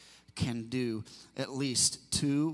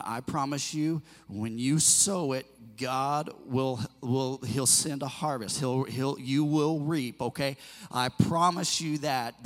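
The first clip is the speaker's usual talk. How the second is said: louder, driving preacher's promise; full-force preaching; 8 dB louder, slower than usual. Acted. Pastor urging the congregation to give, preaching loud. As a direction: build it up and hammer the promise home.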